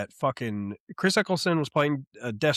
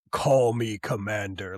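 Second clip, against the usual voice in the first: lower, slow commanding villain line; villain reveal voice; 5 semitones lower than usual. Retold or imitated. Retelling the Cobra Commander reveal, lower slow commanding voice. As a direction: drop into the new commander's voice. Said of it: "his voice completely changes".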